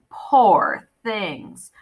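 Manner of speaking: silky feline purr. Acted. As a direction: purr it like a cat. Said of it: "the Catwoman purred".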